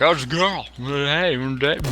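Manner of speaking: high, excited mock-fanboy voice; gushing male gamers. Imitating guys who spot a girl online, mock gushing. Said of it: "most people would be like".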